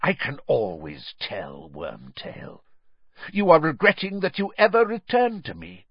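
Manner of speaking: cold, accusing master's voice; a lightly voiced sinister lord; menacing dark lord. Dark lord scorns his servant.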